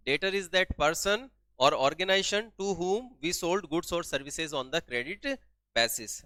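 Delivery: very slow, word by word definition; dictation pace. Shown as a demonstration. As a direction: drag each word out for note-taking. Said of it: "dictating definition slowly".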